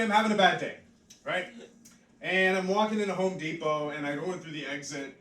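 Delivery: ordinary talk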